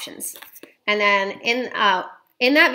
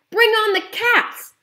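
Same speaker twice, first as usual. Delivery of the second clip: much higher, loud and slow rallying cry; triumphant shout; 12 semitones higher, 6 dB louder, slower than usual. A narrator's reading. Boy cheers his plan to grandmother, triumphant shout. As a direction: yell it like a battle cry. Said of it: "I shouted".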